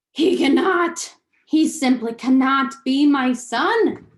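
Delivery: loud, indignant outburst; outraged father. Acted. Lester rages to his wife about their son, loud. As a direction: declare it loud, refusing to believe.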